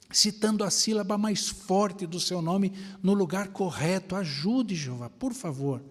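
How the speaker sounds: retold earnest prayer. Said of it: "Ela falou assim na oração".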